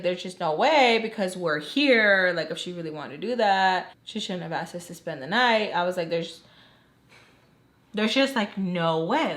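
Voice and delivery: retold disbelief, stressing the impossibility. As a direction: insist in mild disbelief that it cannot be. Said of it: "in disbelief".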